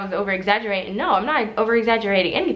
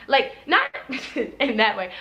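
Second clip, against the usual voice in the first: laughs through the words; laughing. Real, not acted. Explaining to viewers, laughing through it. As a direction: chuckle mid-phrase.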